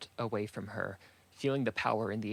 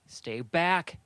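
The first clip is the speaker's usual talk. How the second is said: high, raised-voice command; shouted warning; 6 semitones higher, 4 dB louder than usual. A narrator's reading. Saku warns the warriors below her, in a high shout. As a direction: call out to hold them off. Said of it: "she shouted to the warriors".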